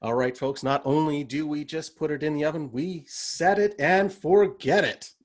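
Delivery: lightly done slow radio pitchman; Ron Popeil impression. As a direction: drag out the pitch like an infomercial host. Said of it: "I wanna hear your best Ron Popeil impersonation".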